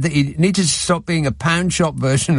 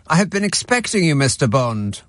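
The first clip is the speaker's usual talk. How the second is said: booming echoing villain monologue. Pretend. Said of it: "he could be the James Bond villain".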